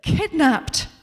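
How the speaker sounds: playing to an imaginary theatre audience; hammed-up dramatic actress. Suze rehearsing a line on the movie set, hammed-up stagey delivery. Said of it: "says Suze again".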